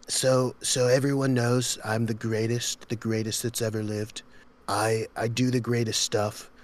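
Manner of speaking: a light boastful politician impression; Donald Trump. Showing friends his impression, boastful politician. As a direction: brag in deliberate, measured phrases. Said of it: "I've been working on Trump".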